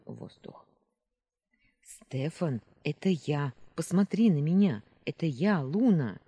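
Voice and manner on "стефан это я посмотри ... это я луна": louder, urging him to look at her; urgent insistent call. Acted.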